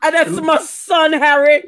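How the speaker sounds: hammed-up sob; mock crying. Father sees his son's sketch and cries out in mock sobs. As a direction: wail over your son, half laughing.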